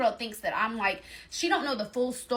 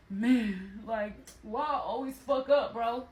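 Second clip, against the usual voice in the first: self-blaming man, acted out; mock self-reproach in his voice; imitating his outburst; slower than usual. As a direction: act out a man berating himself. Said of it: "the Gemini in him came out".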